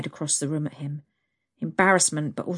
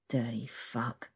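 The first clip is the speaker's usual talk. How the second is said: slow, low murmur under the breath; muttered to herself; 5 semitones lower, 9 dB quieter, slower than usual. A narrator's reading. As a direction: say it quietly to yourself, slowly. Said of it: "she thought to herself".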